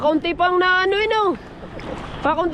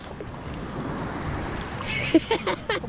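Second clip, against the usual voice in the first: laugh; 9 dB quieter than usual. Real, not acted. Laughing at the catch.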